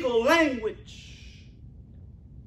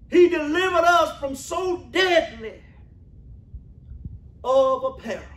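full-voiced pulpit shout; preaching shout; 2 semitones higher than usual. Real, not acted. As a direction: call it out to the congregation. Preacher declaiming to church.

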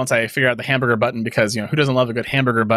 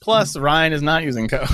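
higher, slow mock readout; computer voice; 5 semitones higher than usual. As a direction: play a computer reading code aloud. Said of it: "like, computer voice".

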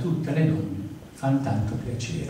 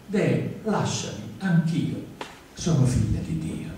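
higher, softer pleading little voice; pleading butterfly; 4 semitones higher, 3 dB quieter than usual. Acted. Butterfly begging Teresa to let it go, small and pleading. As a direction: beg to be let go.

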